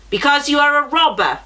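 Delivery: the giant hurls an accusation; accusing giant. A narrator's reading. Giant voiced in story.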